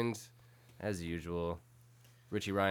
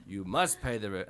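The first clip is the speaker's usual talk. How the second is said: sneering panto villain; 3 semitones lower than usual. Retold or imitated. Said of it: "Snidely whiplash".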